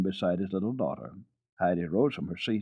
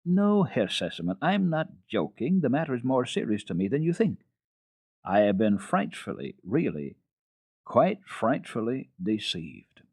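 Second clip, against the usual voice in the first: higher, earnest indignant governess; 4 semitones higher than usual. Acted. Governess insisting to the father, higher and indignant. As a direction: insist you are not joking.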